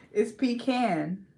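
"pecan" slowly as PEE-can. Shown as a demonstration. Correcting a friend on the word, "pecan" as slow PEE-can. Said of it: "not you saying pecan".

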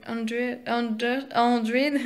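hundred with a Dutch accent; Dutch pronunciation. Real, not acted. Vlogger trips on a series title, Dutch accent. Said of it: "je dis en néerlandais".

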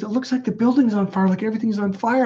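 high-pitched imitation of her alarm; alarmed girlfriend. Girlfriend telling him what she sees, imitated high alarm. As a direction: mimic a girlfriend seeing something impossible. Quoting woman's alarmed vision.

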